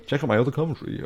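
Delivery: put-on playful American-accented plug. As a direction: slip briefly into an American accent. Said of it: "do an American accent sometimes".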